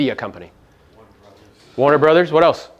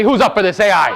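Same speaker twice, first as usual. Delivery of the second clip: a bigger, louder hype call to the crowd; louder call for response; 3 semitones higher, 4 dB louder than usual. Real, not acted. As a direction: pump the room up, louder this time. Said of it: "this is like a million dollars worth of game for free".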